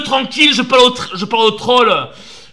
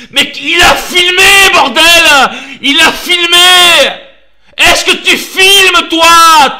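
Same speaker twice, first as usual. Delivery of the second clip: emphatic shout; 2 semitones higher, slower than usual. Real, not acted. Ranting praise of David's filming.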